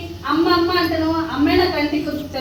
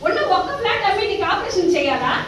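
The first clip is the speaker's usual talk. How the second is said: put-on contemptuous, raised voice telling the old woman off; daughter-in-law throwing out mother-in-law, scornful and harsh; scornful scolding; 3 semitones higher than usual. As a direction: drive her out with scorn.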